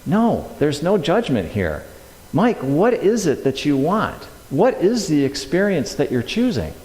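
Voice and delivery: mildly tender, measured reassurance; loving spirit voice. Retold or imitated. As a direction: patiently coax without judgment. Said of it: "It's actually done very lovingly".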